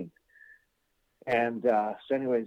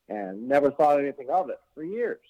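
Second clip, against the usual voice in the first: ordinary talk, nothing marked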